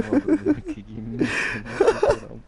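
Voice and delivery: high, loud angry outburst; furious. Real, not acted. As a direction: yell it in rage. Raging at opponent.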